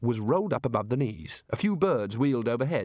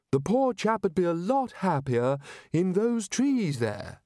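wistful chair of indefinite studies; 6 semitones higher than usual. Acted. Chair of studies longing for the beach, high wistful plea. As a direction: wheedle for a stroll in the warm.

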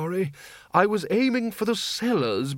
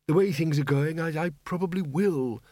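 put-on higher, gloomy old wizard; moody; 4 semitones higher than usual. Windle answering the cheerful gardener, moodily. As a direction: say it with weary gloom. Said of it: "said Windle moodily".

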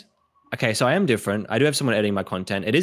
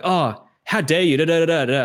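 mock emotional outburst; 7 semitones higher, 4 dB louder than usual. Escalating a spiritual argument, mock indignant outburst. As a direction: overplay the offence as a joke. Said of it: "I'm gonna become really emotional as well".

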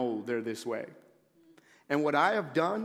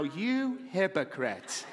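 slow accusing mutter; slower than usual. Pretend. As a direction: drag it out like a disapproving wife. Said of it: "you're thinking in your seat".

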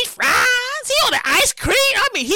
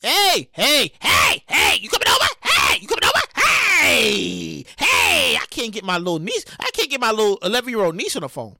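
put-on pestering kid. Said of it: "calling me every chance".

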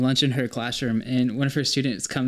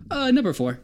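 put-on high girly voice; 12 semitones higher than usual. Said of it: "she was like".

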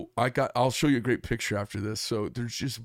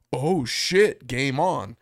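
startled curse; 3 semitones higher, 6 dB louder, much slower than usual. Retold or imitated. Shark snaps, he reacts.

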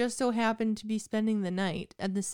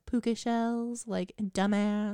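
deadpan put-down; 5 dB quieter, slower than usual. Retold or imitated. Keegan's retort retold.

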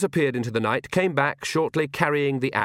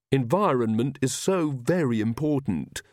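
solemnly; 4 semitones higher than usual. A narrator's reading. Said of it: "said Magrat solemnly".

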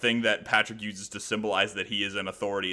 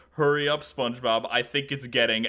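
lightly voiced scared Patrick; 3 semitones higher, 4 dB louder than usual.

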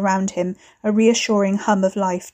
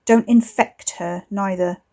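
stinging; slower than usual. Acted. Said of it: "a word that would really sting".

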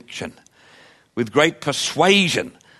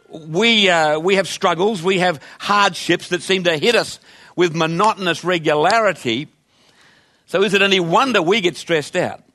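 a hint of complaining believer, pitched up; mock whining; 3 semitones higher than usual. Pastor voices believers protesting to Jesus, lightly whining. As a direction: voice the congregation's mild, pleading grumble at Jesus. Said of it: "that kind of whining".

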